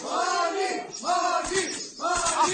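calling out. Acted. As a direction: shout his name across the crowd. Crowd calls out for Mani.

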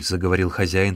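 plain reading voice

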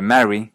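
"marry" with an open a; Montreal vowel. Shown as a demonstration. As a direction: keep the a of "cat" in "marry". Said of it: "sí se mantiene diferente".

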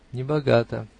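loud, self-important verdict; pompous remark. A narrator's reading. Zverkov sizing up the narrator's salary, pompously. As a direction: pronounce it like a lordly judgement. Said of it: "важно заметил Зверков".

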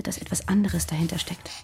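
hushed ominous whisper. Acted. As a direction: whisper it like a dangerous secret. Revealing a secret suspicion. (geflüstert, unheilvoll)

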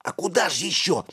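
high-pitched indignant retort; squeaky outrage. A narrator's reading. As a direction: protest in a high small voice. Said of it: "возмутился мышь".

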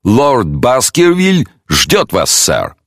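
slow, formal butler announcing; stately butler's announcement. Acted. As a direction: announce the guest slowly, like a butler. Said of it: "объявил".

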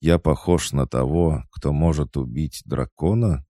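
mock innocence with a grin; lightly amused rhetorical question; smirking. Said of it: "усмехнулся я".

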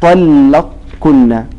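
"طلقكن" drawn out slowly with the qaf merged into a doubled kaf; assimilated kaf. Shown as a demonstration. Teacher reciting the Quranic word slowly. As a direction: stretch "طلقكن" as tallakkunna. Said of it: "وهي كلمة".

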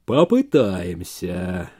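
put-on slow, pensive old man; thoughtful. A narrator's reading. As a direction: mull it over slowly. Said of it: "задумчиво ответил".

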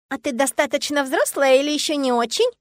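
put-on a suspicious child sizing her up; squinting little girl. Girl asking the heroine if she's grown up, probing child voice. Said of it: "прищурившись, уточнила она".

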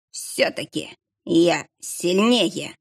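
breathless, slow, dying words; panting shaky eyewitness. Acted. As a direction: gasp it out between breaths. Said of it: "задыхаясь, проговорил он". (задыхаясь, медленно)

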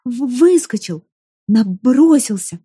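stammering through chattering teeth; shaking, barely getting words out. Acted. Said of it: "стуча зубами и порываясь разрыдаться".

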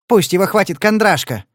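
sharp, loud mock shriek. The woman shrieks at Padler about Mr Troy. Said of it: "взвизгнула женщина".

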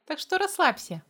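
plain reading voice

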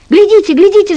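high, loud cry to the parents; shouting. A narrator's reading. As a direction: urge them to look, shouting. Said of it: "закричал Митя родителям".

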